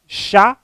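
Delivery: "chá" set apart as a lone syllable; isolated syllable. Shown as a demonstration. Teacher naming the first syllable of chave, "chá" set apart. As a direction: give "chá" its own separate beat. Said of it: "como primeira sílaba".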